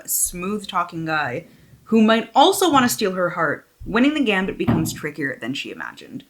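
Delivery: lifted, animated back-cover reading; expressive book-jacket narration; dramatic blurb read. Real, not acted. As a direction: read the blurb out with storyteller emphasis.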